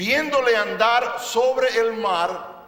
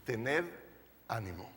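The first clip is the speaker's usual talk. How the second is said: soft reassurance; 10 semitones lower, 12 dB quieter than usual. Retold or imitated. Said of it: "qué es lo que les dice".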